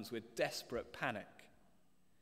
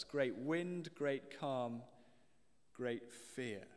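"great" repeated, fading softer; quiet stress on great; much slower than usual. Shown as a demonstration. Preacher repeating the triad, stress fading to quiet. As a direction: let "great wind, great calm, great fear" fade with weight on "great". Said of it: "it is interesting".

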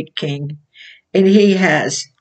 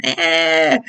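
usual speaking voice

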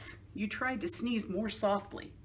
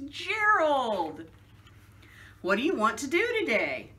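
Piggy voice; 2 semitones higher than usual. Acted. Piggy voiced in picture book.

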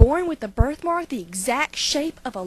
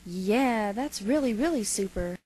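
sarcastic; 4 semitones lower, 4 dB quieter than usual. Acted. Cat mocks the dog's bark.

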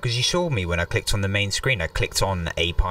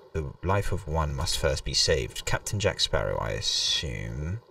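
dramatic reading; 4 semitones lower than usual. Acted. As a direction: read it like an ominous legend. Reads game text dramatically.

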